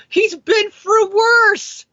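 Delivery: high, slow, incredulous outburst; exasperated shout. Real, not acted. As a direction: drag it out in disbelief. Exasperated rebuttal.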